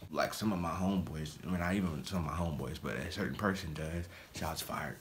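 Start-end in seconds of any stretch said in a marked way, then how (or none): 4.4-5.0 whisper. Real, not acted. Whispered jab at a friend.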